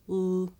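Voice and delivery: l held as a dark "ul" sound; dark l, as at the end of "feel"; syllable-final L. Shown as a demonstration. Teacher contrasting the two L sounds, syllable-final L. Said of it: "Did you hear that little difference".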